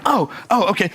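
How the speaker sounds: put-on realising the obvious, in an Australian accent; lightly done Australian oh okay. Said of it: "my Australian accent's not that good".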